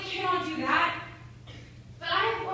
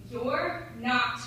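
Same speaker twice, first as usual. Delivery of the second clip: low, measured voice of self-doubt; low, heavy self-reproach; critical inner voice; 5 semitones lower, slower than usual. Acted. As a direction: press it down as a nagging inner critic. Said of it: "feeds the voice in their head saying".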